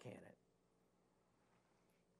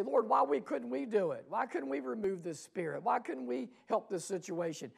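higher, puzzled questioning; baffled disciples asking; 5 semitones higher than usual. Acted. Disciples asking Jesus why they failed, baffled. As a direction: ask why in bewildered protest. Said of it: "they say".

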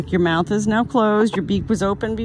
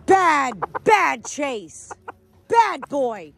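higher, sharply falling reprimands; stern scolding; 4 semitones higher, much slower than usual. Real, not acted. Owner to dog Chase after attack, stern scolding. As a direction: scold the dog in short bursts.

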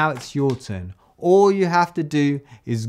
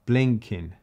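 slow deliberate reading; 3 semitones lower, much slower than usual. Shown as a demonstration. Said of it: "I'm just gonna have".

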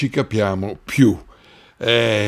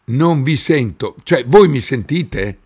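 ordinary talk

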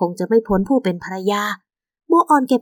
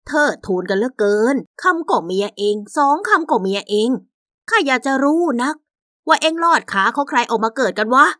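scornful mother; 3 semitones higher than usual. Acted.

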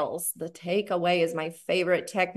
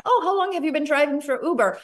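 higher, quicker friendly question; eager small talk; 5 semitones higher, faster than usual. Acted. Passenger chatting to an Uber driver, eager and curious.

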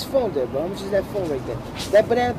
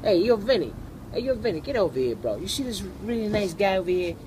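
put-on Brooklyn accent; 5 dB quieter than usual. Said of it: "you wanna hear a Brooklyn accent".

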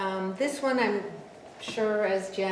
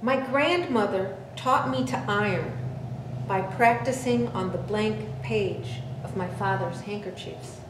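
measured poem recital with deliberate phrasing; poetry reading; 3 semitones higher than usual. Acted. Poet remembering ironing a father's handkerchiefs, measured poetry reading. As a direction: open the poem firmly, pausing between phrases.

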